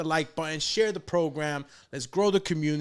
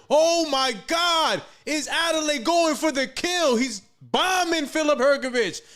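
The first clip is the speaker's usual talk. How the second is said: loud high excited fight call; yelling from the sidelines; 7 semitones higher, 5 dB louder than usual. Real, not acted. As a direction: scream the action as he bombs. Live call of knockdown flurry.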